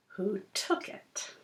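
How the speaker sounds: whispered secret, slowing down. Acted. Telling Cooper the fish's secret in a whisper. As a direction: let it slip out like a secret. Sneaky fish confesses.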